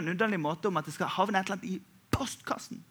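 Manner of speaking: hushed, unvoiced aside; whisper. Real, not acted. Pastor whispering an aside to the congregation. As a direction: let it slip out under the breath.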